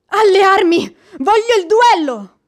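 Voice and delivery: angry battle cry; furious demand. Acted. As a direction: hurl the challenge at him. She demands a duel.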